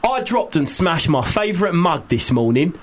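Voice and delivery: put-on Cockney message reading; Cockney accent. Guest reading a listener's message about a broken mug, Cockney accent. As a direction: read it out in Cockney. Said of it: "We like to do it in a Cockney accent".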